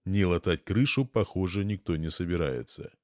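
usual speaking voice

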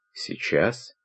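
soft, dismayed double-check; hushed, uneasy question; taken aback query. A narrator's reading. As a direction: ask back quietly, rising at the end. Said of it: "переспросил Сергей, чувствуя, что план его готов рухнуть".

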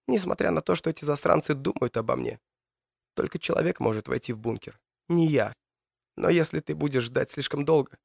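lightly voiced young woman, pleading. Matilda explains the bunker.

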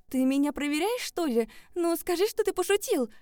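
high, loud desperate pleading. Acted. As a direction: beg him to say it's a joke. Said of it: "Взмолилась я". (высоко и громко, умоляя)

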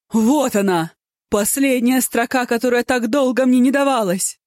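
high, loud, delighted outburst; joyful exclamation. A narrator's reading. Po Kai finding his poem's last line, delighted cry. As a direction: burst out with happy triumph. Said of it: "со счастливым видом воскликнул".

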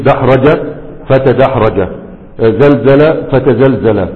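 زلزل فتزلزل said very slowly, each syllable drawn out; slow teacher dictation of زلزل فتزلزل; slow spelled-out drill. Shown as a demonstration. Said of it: "يبقى تقول ايه؟".

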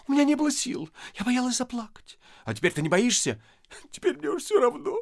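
about to cry; wife giving in to tears; weeping softly. Acted. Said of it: "Лиза всплакнула".

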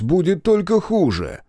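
worried father calling out; urgent warning. Acted. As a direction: warn him fast before it gets worse.

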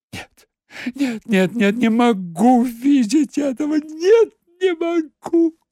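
rising high, loud cry. Acted. Secretary crying out before fleeing, loud. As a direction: cry out and run. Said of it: "закричала".

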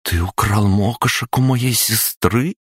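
high, slow goddess voice in wonder; surprised. A narrator's reading. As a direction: ask in astonishment. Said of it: "удивилась Марена".

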